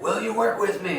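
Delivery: high rallying call; firing up. Acted. Villain rallying his crowd against the Dungeon Dogs, firing them up. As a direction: pitch it up like a pep talk. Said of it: "he's, like, all firing up".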